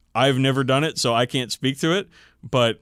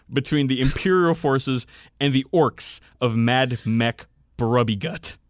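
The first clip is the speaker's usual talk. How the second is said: louder, grand fan fiction narration; dramatic story reading; 2 semitones higher, 3 dB louder than usual. Acted. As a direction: read it like an epic war tale. Reads fan fiction aloud.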